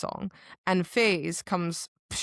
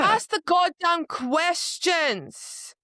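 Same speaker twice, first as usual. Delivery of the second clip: higher, slow exasperated shout; fed-up reader yelling at the book; 10 semitones higher, 3 dB louder, much slower than usual. Real, not acted. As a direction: demand it with real frustration. Frustrated rant at character.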